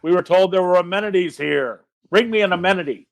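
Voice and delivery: barbarian yell. Acted. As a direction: call out a boastful challenge.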